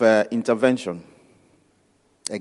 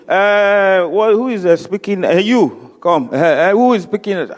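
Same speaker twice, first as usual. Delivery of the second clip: imitating Baba; 4 semitones higher, 3 dB louder than usual. Baba on mic demanding speaker.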